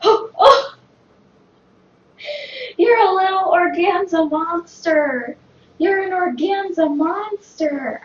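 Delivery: high, loud, slow delight. Real, not acted. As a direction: coo at the cat excitedly. Delighted at pouncing cat.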